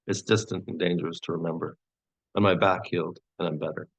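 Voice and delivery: measured poetry-reading cadence with pauses; poem reading. Acted. Poet reads a poem of longing to an audience, measured recital. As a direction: recite a love poem, each line gently falling.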